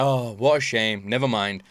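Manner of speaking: lightly imitated shrug-it-off disappointment; indifferent game villain. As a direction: quote them as mildly let down, not bothered. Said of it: "And they're like".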